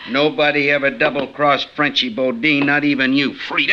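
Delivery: loud menacing threat. Acted. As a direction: lean in and threaten her. Bodine confronts traitor.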